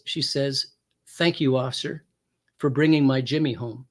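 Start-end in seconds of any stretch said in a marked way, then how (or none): 1.2-3.9 gently retold sweet thanks; a touch of tenderness, slightly lowered pitch; sweetest voice. Fiance thanking officer for bringing Jimmy home, mildly sweet. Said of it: "in the sweetest voice".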